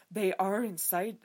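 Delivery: slow, stuffy mock British accent; lightly done British accent. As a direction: say "They are inside" slowly, like a stuffy proper British dude. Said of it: "a proper British dude talking".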